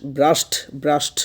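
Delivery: "ব্রাশড" with a forceful d/t at the end; stressed final D. Shown as a demonstration. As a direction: push out the last consonant of "ব্রাশড". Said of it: "জোর দিয়ে হচ্ছে ডিটা উচ্চারণ করতে হবে".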